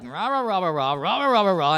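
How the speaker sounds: blustering mock rant in nonsense syllables; little tyrant going rah-rah-rah; little Napoleon. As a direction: imitate yourself barging in and ranting. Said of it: "little, Jewish Napoleon".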